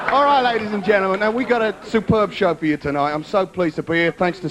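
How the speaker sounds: cheery showbiz host welcoming the crowd; host announcement. Acted. Host opening the show for the audience, cheery announcer read. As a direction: roll it out like a variety host.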